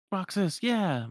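high-pitched cheer; acted celebratory shout; cheering friends. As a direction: cheer for your winning friend. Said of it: "they're all like".

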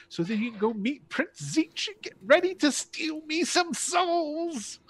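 cheerfully menacing lord greeting his guests; Krasner's voice. Acted. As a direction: play the grand sinister host, sing-song and sly.

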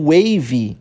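"wave" said as two syllables, WAY-vee; "wave" pronounced like wavy; final Y sounded. Shown as a demonstration. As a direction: add an "ee" sound to the end of "wave". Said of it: "com Y no final".

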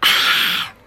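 satisfied breathy ahh after sipping; refreshed sigh after drink. Real, not acted.

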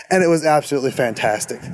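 slightly out of breath while walking; breathless from a stroll. Real, not acted. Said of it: "if I sound like I'm out of breath".

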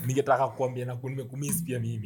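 hammed-up tender tone; mock tender. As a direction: croon it like a lover. Mock romantic reply, low soft.

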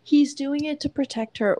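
sneering mimic of the excuse; mocking sarcastic repeat. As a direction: repeat it with scorn. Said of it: "What a fucking manipulative".

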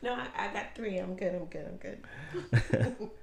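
talking while chewing candy; words round a mouthful of Twizzler; chewing noisily. Real, not acted. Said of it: "so nasty watching a human being consume".

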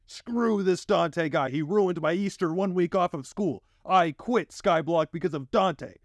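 put-on high whiny angry kid voice; angry forum kid. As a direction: whine it like a raging kid. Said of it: "The forums reacted about as calmly".

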